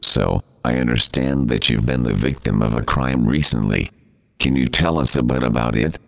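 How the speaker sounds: text-to-speech voice; robot voice. Pretend. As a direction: talks like a computer reader. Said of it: "this preposterous computer talking thing".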